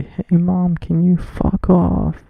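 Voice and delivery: half-yell it like you're telling mom off; the yell he says he wants to do; pretend yell. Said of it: "I just wanna yell right now and say".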